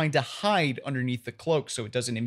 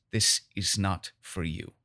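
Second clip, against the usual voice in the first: angry, dirty look; 6 semitones lower, 4 dB quieter than usual. Acted. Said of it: "looks at you very angrily and very dirtily".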